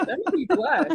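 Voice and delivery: giggling through the words; flustered laugh while speaking. Real, not acted. Blushing, laughing at a joke.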